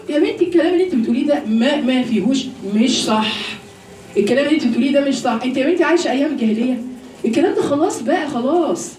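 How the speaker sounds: quick, scoffing mimicry of a know-it-all; mocking a dismissive woman. Preacher mimicking women who dismiss religion, lightly scoffing. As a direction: brush her off lightly with a laugh. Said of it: "انتوا بتقولوا".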